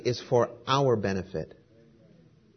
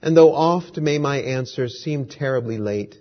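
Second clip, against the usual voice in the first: measured, expressive poem reading; poem recitation. Acted. Reads a poem aloud.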